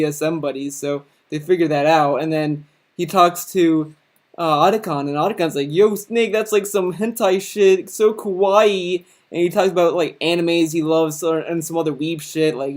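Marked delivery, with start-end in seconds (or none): 5.7-9.0 higher, gushing otaku voice, kawaii stretched slow; lightly hammed-up anime nerd gushing at Snake; gushing anime fan. Otacon gushing about anime.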